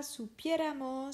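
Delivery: supieramos stressed on the E after PI; stress on third-last syllable. Shown as a demonstration. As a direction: land the weight on PIE in supieramos. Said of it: "Toujours l'accent sur l'avant-avant-dernière syllabe".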